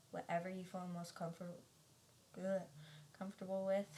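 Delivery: stumbling over words with braces; talking around braces, tripping on a word. Real, not acted. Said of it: "it's hard to talk with braces".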